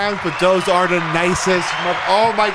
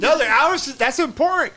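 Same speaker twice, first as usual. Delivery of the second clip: yelling; 7 semitones higher than usual. Real, not acted. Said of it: "I'm sorry I yelled at you".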